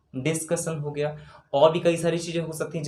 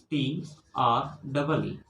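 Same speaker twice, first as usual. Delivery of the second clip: very slow spelling; 3 semitones lower, 4 dB quieter, much slower than usual. Shown as a demonstration. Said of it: "teacher spells out letters".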